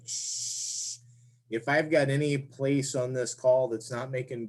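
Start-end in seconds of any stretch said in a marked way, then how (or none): 0.1-0.5 soft hissing shh; air leak hiss. Shown as a demonstration. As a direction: hiss like air leaking past the call. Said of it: "So it'll sound like".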